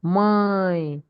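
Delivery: 'Mãe' with the vowel held long; stressed accented vowel. Shown as a demonstration. Teacher showing class the accented part, stressed 'Mãe'. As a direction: lean on the nasal vowel of 'Mãe'. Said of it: "we are stressing the part that has accent".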